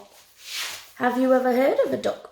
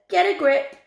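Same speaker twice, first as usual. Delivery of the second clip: exasperated dad; 6 semitones higher, 4 dB louder than usual. A narrator's reading. Dad rebuking his family in story.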